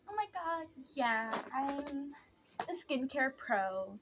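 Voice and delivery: lightly mocked skincare know-it-all; imitating sister. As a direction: put on a slightly affected sister voice, slowing at the end. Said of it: "my sister always tries to, like".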